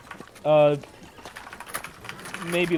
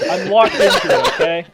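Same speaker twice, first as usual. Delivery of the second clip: put-on old person voice; 4 semitones higher, 10 dB louder than usual. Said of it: "you started doing the old person voice".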